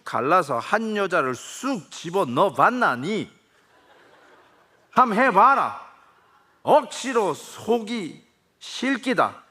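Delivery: a stepfather pouring out his heart in broad Gyeongsang; acted Gyeongsang stepfather. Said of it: "제가 액팅을 해야 되겠습니다". (의붓아들에게 사랑을 고백하는 경상도 아버지, 느리고 높게 애원하듯)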